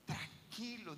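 slow, dismissive reassurance; mildly voiced dismissive believer; brushing off. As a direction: wave the Lord away. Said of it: "Y dice".

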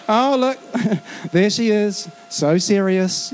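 slow, drawn-out teasing "so serious"; lightly voiced playful tease; mock teasing. Friends teasing an overly serious Christian, slow and mocking. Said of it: "mocking a serious Christian".

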